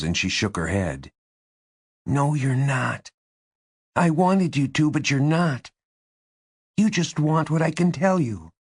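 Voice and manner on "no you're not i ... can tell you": put-on high-pitched wounded girl; Angie, hurt and accusing. A narrator's reading. Tearful Angie answers Kate.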